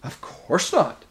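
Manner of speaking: high, drawn-out shocked denial; shocked bear, pitch leaping up. A narrator's reading. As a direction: protest slowly, scandalised. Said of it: "in a very shocked voice".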